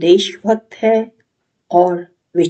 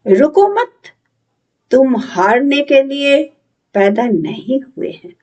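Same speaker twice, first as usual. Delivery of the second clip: measured declamation with lifted phrases and falling ends; lightly theatrical, resolute recitation with long pauses; dramatic monologue; 3 semitones higher than usual. Acted. Patriotic, thoughtful youth affirms his humanity, dramatic monologue.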